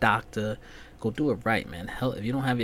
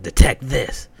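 mock ad line; 3 semitones higher, 10 dB louder, slower than usual. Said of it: "first thing he's talking about".

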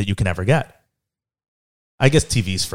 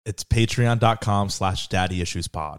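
slow plug; 4 semitones lower, 7 dB quieter, slower than usual. Shown as a demonstration. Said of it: "One more time".

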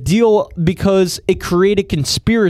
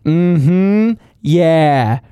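great-aunt Bernadette. Acted. Great-aunt agreeing after everything she says, imitated old-lady voice. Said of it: "but she always says".

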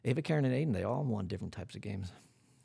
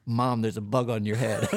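laughing; 6 dB louder than usual. Retold or imitated. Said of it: "Ava had put in for her answer".

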